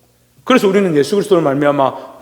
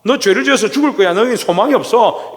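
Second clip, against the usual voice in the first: a hint of the devil taunting believers, pitched higher; accusing devil; 5 semitones higher than usual. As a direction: mildly play the devil condemning us. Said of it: "마귀가 우리를 자꾸 뭐라고 정죄하느냐".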